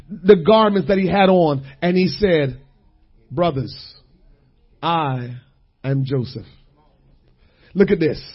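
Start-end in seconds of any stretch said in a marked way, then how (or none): 3.3-6.5 soft and low, almost a whisper; hushed reveal. Acted. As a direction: reveal yourself gently, in a hush. Joseph reveals himself to brothers.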